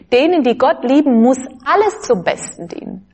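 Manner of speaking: "alles" given the main emphasis; stress on alles. Shown as a demonstration. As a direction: lean on the word "alles". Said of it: "Betonung auf alles".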